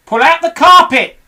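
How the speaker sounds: loud high command; shouting. Acted. Mugglewump orders the animals, shouting. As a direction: bark the order at the crew. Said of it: "shouted Mugglewump".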